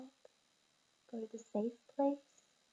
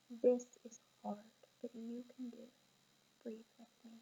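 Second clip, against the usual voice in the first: calm; 6 dB quieter than usual. Shown as a demonstration. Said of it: "come over and say".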